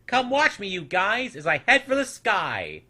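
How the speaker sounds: high, loud call to the crowd; eager little snoodle calling his elders. A narrator's reading. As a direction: shout up to the others from the wall. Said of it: "heard the new small snoodle call".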